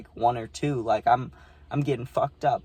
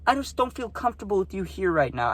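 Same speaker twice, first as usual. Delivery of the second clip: high, hurt mock girl voice; girl scolding her guest, mocked in a high voice; imitating upset girl; 8 semitones higher than usual. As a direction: play the wounded hostess, high and whiny. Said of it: "she was so mad".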